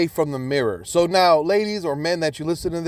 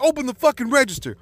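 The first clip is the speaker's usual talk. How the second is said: much higher, heated order; retold hyped-up demand; 9 semitones higher than usual. Husband retelling his salon outburst, hyped-up angry demand. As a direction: act out losing control while giving an order. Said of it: "I just got so hyped up".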